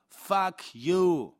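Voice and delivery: loud shouted curse; shouting. Acted. Man screams at Joan, slamming the front door, loud. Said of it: "schreie ich".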